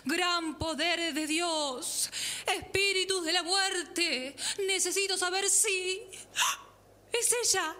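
seance medium. Acted. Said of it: "Voy a ponerme en trance".

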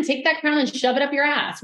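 high-pitched, animated defiance; defiant retelling. Retold or imitated. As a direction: act out telling her off. Acts out defiant retort.

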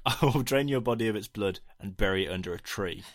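put-on piss-take French accent; hammed-up French accent for a threat. Co-host repeating the film line that got them, French accent. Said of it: "doing a piss take French accent".

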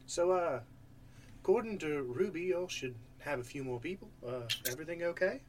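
put-on wavering, poorly held Irish accent; attempted Irish accent. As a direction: try for Irish and slip out of it. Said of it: "I'm losing the accent".

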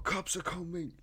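high, shouted warning in English; retold yelling. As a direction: yell at the crowd to dump drinks. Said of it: "de bara skrek bara".

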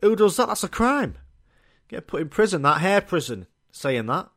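high, indignant mock outrage; hammed-up horror at a traitor; outraged disbelief. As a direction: act scandalised at the very idea. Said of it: "I'm like".

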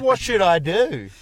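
slow, loud, high pleading whine; desperate pleading voice. Pretend. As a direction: drag out the plea in mock despair. Voicing a panicked letter writer.

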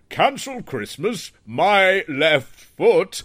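imitating a jolly Santa, slowly; slow, drawn-out Santa impression. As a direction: drag out "Cancel Christmas, my left foot" slowly. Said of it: "Santa said".

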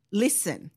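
"Listen", the T left out completely; correct pronunciation. Shown as a demonstration. Correcting dad's English, "Listen" with silent T. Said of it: "It's a silent T".

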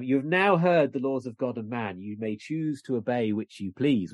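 measured mock-pulpit delivery, slowing at the end; lightly acted passive-aggressive clergyman. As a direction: politely leave the congregation to choose. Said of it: "which is very nicely passive aggressive".

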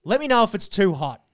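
imitated masseuse with Asian accent. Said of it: "I can't do the accent now".

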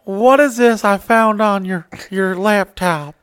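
accusing soccer mom. Retold or imitated. Wife confronting husband about laptop, high accusing voice. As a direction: grill him like a furious wife. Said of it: "He's like".

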